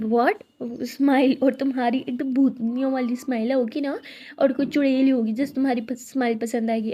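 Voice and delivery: loud burst of mock outrage; loud playful indignation; mock outraged. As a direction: snap back loudly at the teasing.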